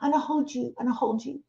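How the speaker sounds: softly imitated toddler voice; baby talk. Remembering what your babies used to say, soft baby talk. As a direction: say it small and soft, as a baby would. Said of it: "when your babies used to say that".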